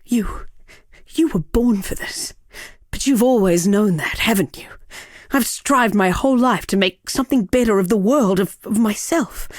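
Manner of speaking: emotional farewell. Acted. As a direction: pour out a last heartfelt confession. Urgent farewell, sending the ranger off.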